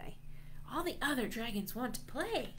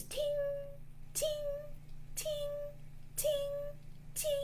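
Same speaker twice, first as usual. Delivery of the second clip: soft, ringing, spaced tings; triangle ting; 7 dB quieter, much faster than usual. Pretend. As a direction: imitate a triangle chiming. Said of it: "is playing a triangle".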